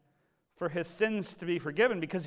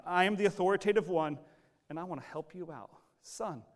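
caring authority; 3 semitones higher, 3 dB louder, faster than usual. Acted. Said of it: "it's one of care and compassion".

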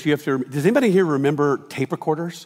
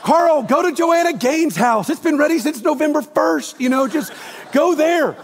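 hammed-up wife sending someone away, louder; mock bossy wife; 13 semitones higher, 5 dB louder than usual. Pastor acting a wife redirecting the visitor, mock bossy.

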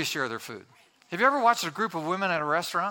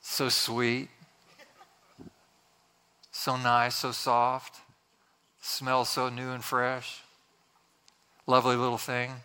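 lower, gently admiring voice; tender cooing; 4 semitones lower than usual. Acted. Preacher describing a newborn to the congregation, tender cooing.

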